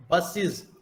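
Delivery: बसेस ending in an "iz" sound. Shown as a demonstration. Teacher showing a plural ending, बसेस said with final iz. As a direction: say बसेस as "bus-iz". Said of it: "ईज की तरह pronounce हो रहा है".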